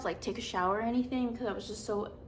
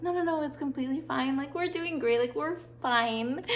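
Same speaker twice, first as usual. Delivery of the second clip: mock-breezy reassurance; 4 semitones higher than usual. Fake-cheerful reassurance to teacher.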